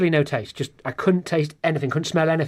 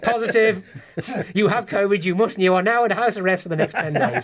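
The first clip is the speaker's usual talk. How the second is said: lightly voiced test-result message, raised pitch; mock official notice; 4 semitones higher than usual. Test service orders him into isolation, mock official notice. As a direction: announce it like an official order, hammed up a little.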